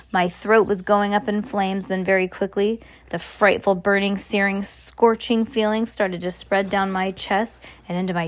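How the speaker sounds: expressive read-aloud storytelling; story narration. A narrator's reading. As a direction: read it like a children's novel.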